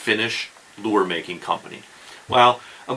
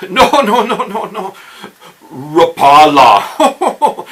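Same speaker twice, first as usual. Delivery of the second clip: higher, loud laughing no no no, then a very slow Rapala; laughing Finns; 10 semitones higher, 9 dB louder, much slower than usual. Retold or imitated. Three Finns laughing at his wrong Rapala, slow. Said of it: "All three of 'em were like".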